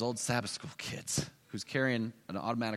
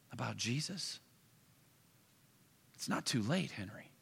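softer, tender pleading; gentle plea; 2 semitones higher, 5 dB quieter than usual. Acted. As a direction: coax an old pupil to turn back. Pastor gently pleads with Henry.

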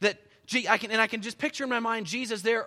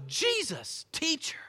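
amazed recognition; 9 semitones higher, slower than usual. Acted. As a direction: voice leaps up as the light turns on. Mary suddenly recognizes Jesus.

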